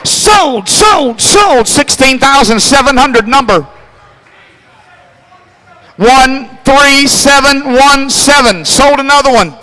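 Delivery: fast rhythmic bid-calling chant; auctioneer. Acted. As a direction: rattle off the bids like an auctioneer. Auctioneer calling car bids.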